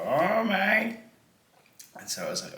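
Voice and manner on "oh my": high, startled "oh my"; shocked gasp. Retold or imitated. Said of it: "I heard someone go".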